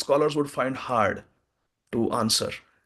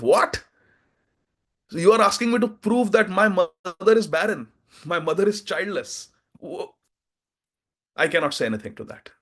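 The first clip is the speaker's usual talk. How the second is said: shocked disbelief; 3 semitones higher than usual. Acted. Kolahal shocked by the statement.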